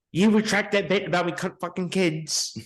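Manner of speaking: exaggerated British film-villain accent; Ray Fiennes. Quoting a British film line, hard British accent. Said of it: "the best is fucking Ray Fiennes".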